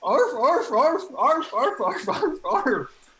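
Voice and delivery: high, loud yappy little barks; yappy chihuahua voice. Acted. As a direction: yap like a tiny dog. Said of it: "say something that only Roger would know".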